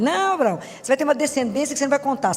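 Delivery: put-on animated God persuading an old man; voicing God to Abraham. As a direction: play God talking Abraham round. God reassuring Abraham, acted dialogue.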